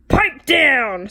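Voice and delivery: loud stern snap; stern order. Acted. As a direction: shut them up sharply. Witch silences the class.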